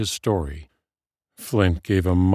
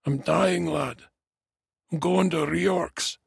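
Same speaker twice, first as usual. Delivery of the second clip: high, feeble dwarf voice; weak dying dwarf; 10 semitones higher than usual. A narrator's reading. Dying dwarf to his young friend, feeble voice. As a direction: announce it weakly, pitched high. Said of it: "said the dwarf weakly".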